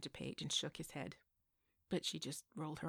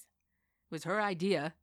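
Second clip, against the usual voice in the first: put-on grumpy old man; 9 dB louder, slower than usual. Old man bickering at counter.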